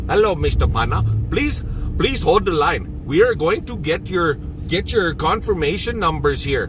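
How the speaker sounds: light imitation of an East Indian call-centre accent; a hint of an East Indian accent, half-joking; mock East Indian accent. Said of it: "if that ain't East Indian".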